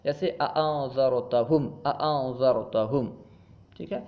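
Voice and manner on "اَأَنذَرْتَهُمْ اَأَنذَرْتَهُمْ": "اَأَنذَرْتَهُمْ" with both glottal stops distinct; fully sounded hamza. Shown as a demonstration. Teacher demonstrates tahqiq, both hamzas of "اَأَنذَرْتَهُمْ" clear. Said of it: "ہمزہ کو اس کے مخرج سے خوب ظاہر کر کے پڑھنا".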